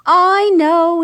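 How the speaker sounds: cutting in. A narrator's reading. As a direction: jump in over him. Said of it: "interrupted Ella".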